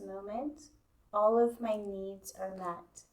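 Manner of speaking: calm, even guidance with long pauses; guided meditation. Real, not acted. Yoga teacher easing students into Yoga Nidra, guided meditation. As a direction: settle them in, leaving space between phrases.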